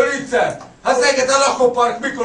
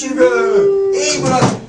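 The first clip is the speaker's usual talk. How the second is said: mock yell; 8 semitones higher, slower than usual. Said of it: "és üvöltött".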